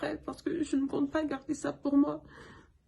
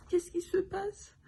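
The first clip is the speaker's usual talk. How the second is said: tearful; 5 semitones higher, slower than usual. Retold or imitated. Quoting herself, too weak to speak.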